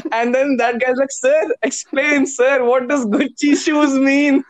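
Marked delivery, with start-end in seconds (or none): 1.1-4.4 put-on slow, lightly done South Indian accent. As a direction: imitate a South Indian student slowly. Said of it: "South Indian accent".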